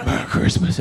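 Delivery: unvoiced, sudden mock greeting; spring it on someone like an ambush; ambushing stranger. Stranger jumping out of trees to greet him, sudden voiceless burst. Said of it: "They were just jumping out of trees".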